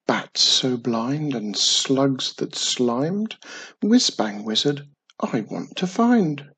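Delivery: slow, measured incantation in rhyme; spell casting. A narrator's reading. Witch casting a finding spell, slow incantation. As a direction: intone it like magic words. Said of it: "said the magic words".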